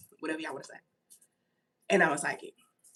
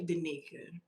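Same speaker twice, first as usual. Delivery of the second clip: spirit voice; 5 semitones lower, 14 dB quieter than usual. Retold or imitated. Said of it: "That voice always say".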